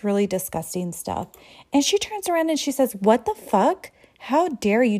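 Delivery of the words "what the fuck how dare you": loud, indignant outburst at catcallers; mock furious comeback; angry retort. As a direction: snap it out, offended and furious. Woman snaps back at catcallers.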